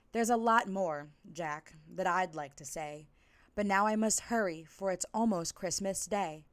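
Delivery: rhythmic, sing-song rhyming read-aloud; lilting holiday storyteller; storybook narration. A narrator's reading. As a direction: read it like a bedtime story to kids.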